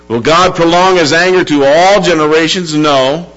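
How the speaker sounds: firm sermon delivery, settling toward the end; earnest preaching. Real, not acted. Preacher assuring the church of God's mercy, earnest preaching. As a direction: preach it with steady conviction.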